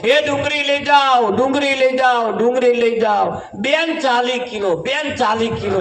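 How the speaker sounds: calling out onions to passing women; onion seller's shout. Retold or imitated. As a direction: cry it across the market like a street vendor. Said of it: "બૂમ પાડે".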